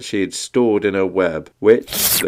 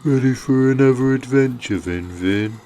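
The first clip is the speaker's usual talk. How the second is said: quick, higher snake whisper; 8 semitones higher than usual. Acted. Snaky invites Vin to an adventure, whispered. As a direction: whisper it fast, as a little snake. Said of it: "Snaky Snake whispered".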